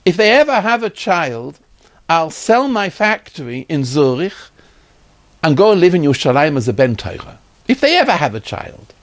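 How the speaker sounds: exasperated vow, pitched high; emphatic, worked-up declaration; retold aggravated outburst. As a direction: re-enact losing patience in an argument. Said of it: "I got so aggravated with my wife".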